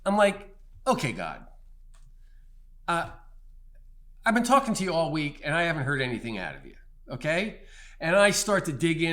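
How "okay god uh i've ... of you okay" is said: annoyed. Retold or imitated. Preacher retelling his prayer on the mountain: quick annoyed complaint. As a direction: rattle it off, fed up. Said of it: "now I'm a little annoyed".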